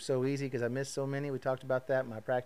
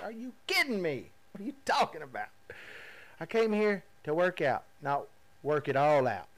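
higher, louder disbelief; mock outrage; 3 semitones higher, 4 dB louder than usual. To Trey at the gym, in mock outrage. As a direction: protest in comic exasperation. Protesting more exercise.

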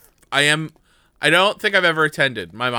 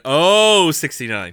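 bingo caller; 2 semitones higher, much slower than usual. Pretend. Mock bingo call.

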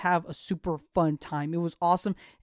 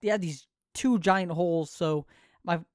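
saliva in mouth. Real, not acted. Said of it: "have a lot of saliva in my mouth".

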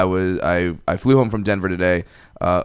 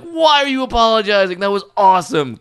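much higher and louder, thrilled; delighted reassurance; 10 semitones higher, 3 dB louder than usual. Retold or imitated. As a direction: cheer him on as if he did you a favor. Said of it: "I'm like".

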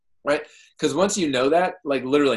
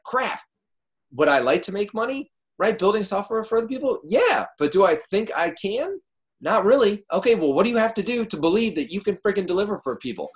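1 high inner voice; 8 semitones higher than usual. Retold or imitated. Voicing own doubting inner thoughts.

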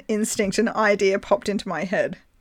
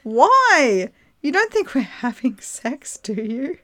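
higher, a touch louder, mock indignant; mock outraged girl; 6 semitones higher, 4 dB louder, slower than usual. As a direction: act out her shocked question. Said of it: "She says".

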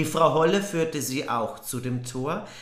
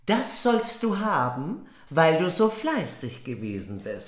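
Frau Holle voice. Acted. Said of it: "sprach die Frau Holle".

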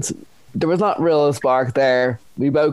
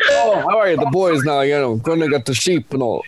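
lightly voiced farmer, a little raised. Farmer date talking sheep to a city dater, lightly mimicked. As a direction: greet them with a hint of farmer accent. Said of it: "he's, like, a farmer".

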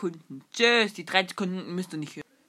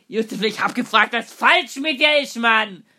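mock angry demand; 2 semitones higher, 5 dB louder than usual. Kids act out scolding Josef Le.

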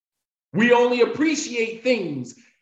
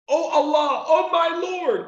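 mock scream; 8 semitones higher than usual. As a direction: imitate a desperate cry to God, pitched well up. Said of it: "he screams out".

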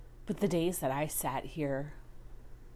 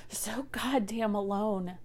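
whisper; 3 semitones higher, slower than usual. Real, not acted. Admitting deep loneliness.

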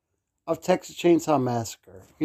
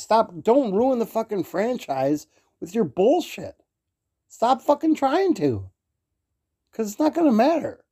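higher-pitched, exasperated plea; real pissed-off rant; 5 semitones higher than usual. Real, not acted. Fan begging them not to ruin the franchise, pissed off. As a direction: push the pitch up in real irritation. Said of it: "I'm getting fucking pissed off".

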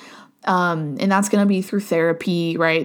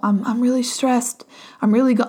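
put-on higher, half-hearted voice of an upset child; stressed child; 5 semitones higher than usual. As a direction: lightly play a stressed kid about to cry. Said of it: "imagine if a child came to you and was like".

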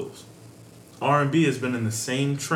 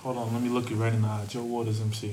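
cool voice; 4 dB quieter than usual. Acted. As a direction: slide it out cool and sleepy. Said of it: "Why you putting on that voice".

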